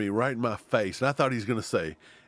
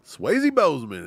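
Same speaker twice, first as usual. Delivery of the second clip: loud hype call; 8 semitones higher, 6 dB louder, slower than usual. Retold or imitated. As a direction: shout his name across. Calling out to player.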